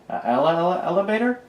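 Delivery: put-on high little-kid voice, stumbling; echoed. A narrator's reading. Little brother mishearing alligator, high and stumbling. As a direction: mangle the word like a toddler. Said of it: "echoed Davin".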